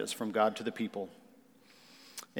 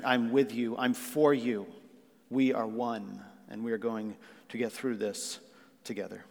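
reassuring spouse; 2 semitones lower than usual. Acted. Spouse promising to get through this together, reassuring. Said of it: "like a spouse".

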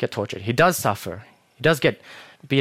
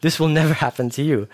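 raised-pitch, emphatic refusal; impassioned protest; 4 semitones higher than usual. Acted. Peter jumping in to defend Jesus, full of passion. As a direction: swoop in to defend him with conviction. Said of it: "Notice how strong Peter's words were".

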